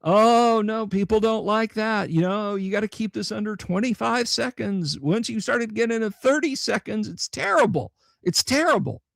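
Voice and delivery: imitating the YouTube Studio AI; mock YouTube AI voice. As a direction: parody a smug algorithm lecturing you. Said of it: "the YouTube Studio A I was all like".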